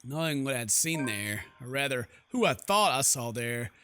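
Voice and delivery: low, measured narrator's read; story narration. Acted. Heroine recalls what she saw at the mansion, measured narration. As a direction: narrate it evenly, pausing between phrases. Reads game's narration aloud.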